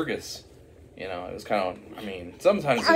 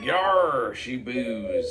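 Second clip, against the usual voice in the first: pirate voice; 3 semitones higher, 4 dB louder, much slower than usual. Retold or imitated. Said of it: "the only one to talk like an actual pirate".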